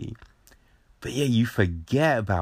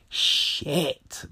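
high surprised curse; 8 semitones higher than usual. Retold or imitated. Seeing the kid.

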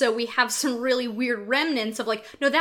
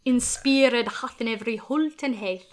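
Middle English. Shown as a demonstration. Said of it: "Middle English dialect".

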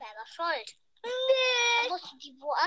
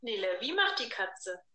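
put-on reading to a toddler; 5 semitones lower, 4 dB quieter than usual. Asking a toddler animal sounds.

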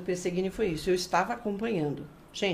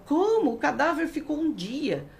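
high-pitched, drawn-out mock outrage; put-on public complaint, pitched up; mock indignation; 6 semitones higher, slower than usual. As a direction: imitate an indignant crowd demanding answers. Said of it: "a população fica brava e fala".

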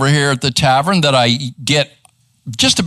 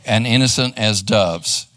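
slow completion; 5 semitones lower, slower than usual. Shown as a demonstration.

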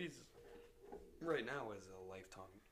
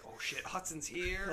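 higher, louder, slow mock alarm; mock startled; 7 semitones higher, 4 dB louder, slower than usual. Imitating the doppelganger spotting his friend, mock startled and slow. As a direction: act out a lookalike's startled realisation. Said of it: "he was like".

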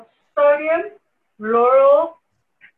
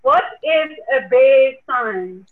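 louder and slower, so they hear; repeating louder; 5 dB louder, slower than usual. Real, not acted. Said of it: "The what?".

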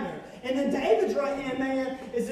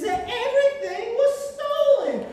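mock angry king; 10 semitones higher, 7 dB louder than usual. Dramatic reveal in sermon.

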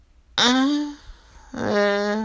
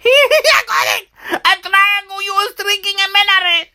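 laughing; 9 semitones higher than usual. Real, not acted. Laughing as she guesses.

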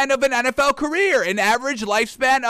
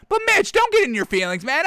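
high scolding plea; 6 semitones higher than usual. Acted. Scolding a player.

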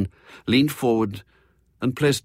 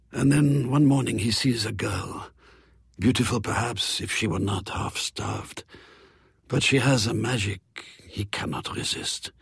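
lightly voiced French croupier. Vaucher narrates his tale.

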